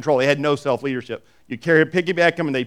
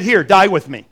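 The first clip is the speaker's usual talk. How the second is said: louder retold quote; 3 semitones higher, 6 dB louder than usual. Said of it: "He said".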